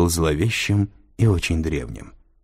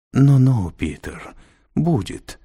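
soothing; 6 semitones higher, slower than usual. A narrator's reading. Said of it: "успокоил его татуированный".

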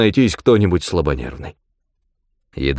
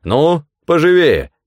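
put-on German accent; 10 semitones higher, 5 dB louder than usual. A narrator's reading. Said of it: "поторопил голос".

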